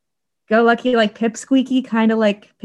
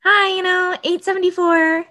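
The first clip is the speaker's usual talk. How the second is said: high, bright-pitched polite retail greeting; customer service voice; 9 semitones higher than usual. Retold or imitated. Retail worker imitating her polite service voice, high. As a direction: chirp it like a cashier greeting a customer. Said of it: "you definitely have a voice".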